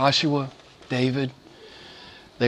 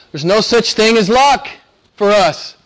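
preaching; 6 semitones higher, 5 dB louder than usual. Real, not acted. Preacher declares his main point.

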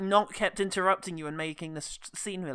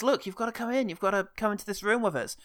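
urgent mother; 4 semitones higher, faster than usual. Retold or imitated. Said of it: "Finds Zoe and says".

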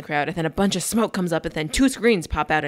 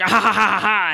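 villain laugh; 2 semitones higher, 5 dB louder than usual. Retold or imitated. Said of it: "like, evil laugh all the way".

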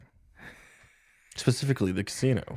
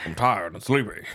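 put-on Southern accent; 2 semitones lower than usual. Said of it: "Yawns in Southern".

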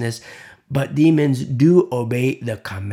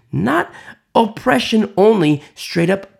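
sudden loud stress; 7 semitones higher, 6 dB louder than usual. Real, not acted. Preacher cries out the contrast to his listeners. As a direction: burst out high and loud. Emphatic contrast after whisper.

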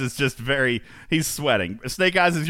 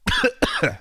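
sudden choking cough; harsh coughing fit. Real, not acted. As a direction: cough as if something went down wrong. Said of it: "That was a terrible, terrible cough".

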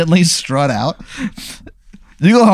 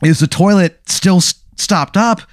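mock outrage, higher and emphatic; halting acted indignation, phrase by phrase; angry owner; 4 semitones higher than usual. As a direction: play the fed-up owner, building to the last word. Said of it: "he goes".

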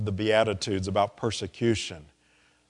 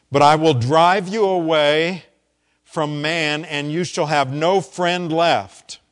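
loud, slow tyrant's threat; menacing emperor, drawn-out threat; cold rasping evil emperor; 4 semitones higher, 7 dB louder than usual. Acted. Sermon acts out emperor threatening Chrysostom.

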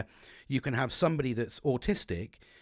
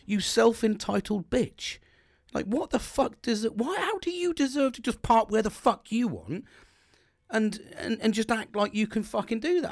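retold fury; 10 semitones higher than usual. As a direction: relive the rage at the driver in a raised voice. Retold rage at the parked driver.

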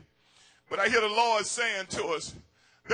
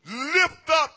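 slow commanding call; 2 semitones higher, 3 dB louder, much slower than usual. Acted. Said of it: "He says".

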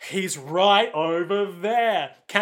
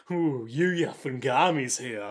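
mild ominous villain; 4 semitones lower, slower than usual. Retold or imitated. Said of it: "ominously monologue".

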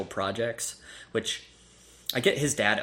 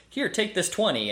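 imitating aunt; 9 semitones higher than usual. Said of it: "she says".

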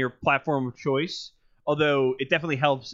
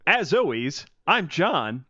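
radio voice; 3 semitones higher, 4 dB louder, slower than usual. Acted. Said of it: "I'm thinking of doing a radio voice from now on".

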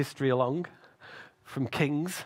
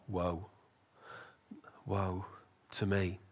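solemn confession; 4 semitones lower than usual. Acted. Isaiah confesses before holy God.

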